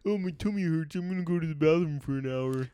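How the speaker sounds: playful teasing impression of a slacker; mock whiny excuse. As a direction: put on a feeble sick-day whine.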